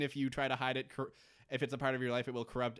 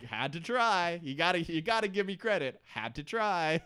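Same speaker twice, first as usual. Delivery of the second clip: louder, higher, cheeky excuse; sheepish Mikhail; 5 semitones higher, 3 dB louder than usual. Retold or imitated. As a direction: shrug off getting caught. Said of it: "Mikhail's just kinda like".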